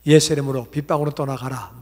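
loud, forceful rebuke of the rain; a loud, commanding prayer rebuking the rain. Retold or imitated. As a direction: command the rain to leave in Jesus' name.

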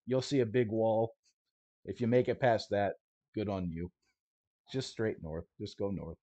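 a hint of a no-nonsense smuggler laying down rules; lightly voiced stalker guide, matter-of-fact; gruff guide Coyote. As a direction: tough guide briefing his clients, half-acted. GM plays Coyote answering questions.

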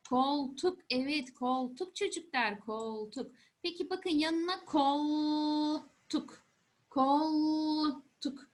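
put-on patient teacher voice for kids; explaining to a child. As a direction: talk it through gently for children. Teacher talking to young children.

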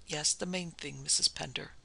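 soft, gentle coaxing; encouraging. Acted. Doctor softly encourages the hesitant wife, gently. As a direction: ease her into speaking. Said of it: "he said encouragingly".

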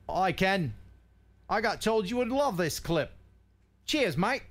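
light mock Australian accent reading a viewer's note; a hint of Australian, half-hearted. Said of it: "I'm gonna try a, an Australian accent".

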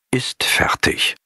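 slow whispered moral. A narrator's reading. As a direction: breathe the lesson out slowly. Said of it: "Moral leise geflüstert". (langsam geflüstert)

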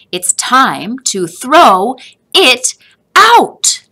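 building to a loud, high, slow shout; a mother at the end of her patience; exasperated mother. A narrator's reading. Mother finally shouts at Joseph to throw it out.

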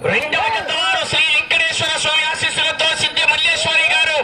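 steady, level-toned public summons; race announcer. Real, not acted. Announcer summons the second pair to set off, formal call. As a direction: announce it in a sustained monotone chant. Calls the next pair to come.

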